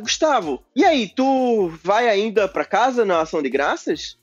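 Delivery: put-on slow, drawn-out northeastern accent; northeastern Brazilian accent. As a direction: imitate her with a lilting northeastern accent. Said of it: "Ela tinha sotaque nordestino?".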